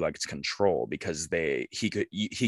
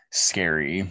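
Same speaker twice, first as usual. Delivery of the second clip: whispering; 2 semitones lower than usual. Real, not acted. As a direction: whisper it spookily. Whispered comment.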